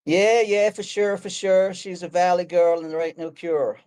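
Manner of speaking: put-on a Valley girl American accent with Australian showing through; Aussie trying an American valley girl accent. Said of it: "can you do an American accent?".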